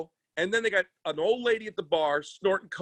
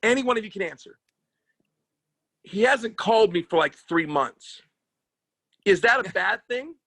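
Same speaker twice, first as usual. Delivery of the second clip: campy gay persona; 4 semitones higher than usual. Pretend. Comic playing gay lover bit.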